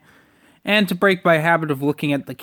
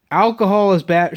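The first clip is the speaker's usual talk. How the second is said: mocking the teacher; 4 semitones higher, 5 dB louder than usual. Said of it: "She told me alcohol was bad for me".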